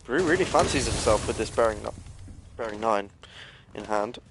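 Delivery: talking through hiccups; words broken by hiccups. Real, not acted. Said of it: "Oh, excuse me, I have the hiccups".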